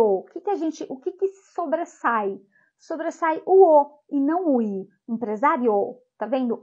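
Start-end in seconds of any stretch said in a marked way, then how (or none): 5.1-6.0 Empresário with the O clearly stronger than the I; stressed demo word. Shown as a demonstration. Teacher pointing out the strong vowel, stressed. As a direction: say Empresário pressing on the O. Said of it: "O O, ele é falado de forma mais forte".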